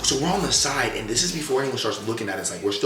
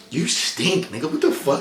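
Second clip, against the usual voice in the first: retold yell; 6 semitones higher, slower than usual. Retold confrontation with the guy.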